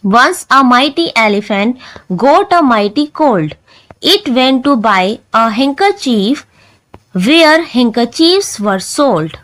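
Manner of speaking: poem recitation. Shown as a demonstration. Reads the next poem aloud.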